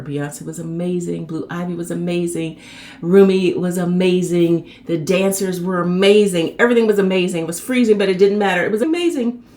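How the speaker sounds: building excitement. Real, not acted. Raving list about the show.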